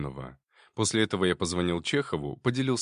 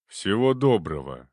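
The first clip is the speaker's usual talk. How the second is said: gloomy; 4 dB louder than usual. Acted. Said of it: "мрачно кивнул Филимонов".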